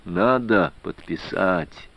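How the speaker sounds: usual speaking voice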